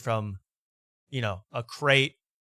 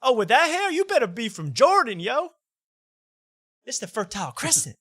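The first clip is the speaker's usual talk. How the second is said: bro roast; 10 semitones higher, 4 dB louder than usual. Retold or imitated. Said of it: "And he goes".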